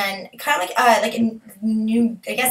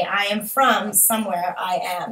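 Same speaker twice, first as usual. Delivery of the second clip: put-on slow, lilting Welsh accent; a light attempt at a Welsh accent; 3 semitones lower, slower than usual. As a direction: do your best Welsh impression, slowly. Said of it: "my best impression".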